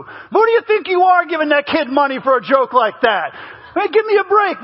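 rising, exasperated protest; mock indignation. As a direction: play an outraged dad objecting. Acted indignant protest to joke.

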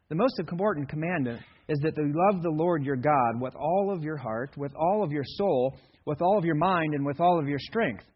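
understated, even read with little feeling; flat delivery. Shown as a demonstration. Pastor showing how Kevin would say it, flat and understated. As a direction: recite it like a dry list. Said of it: "Jesus did not say it in that way".

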